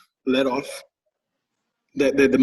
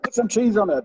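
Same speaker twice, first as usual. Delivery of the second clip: imitating daughter; 8 semitones higher than usual. Daughter voiced in story.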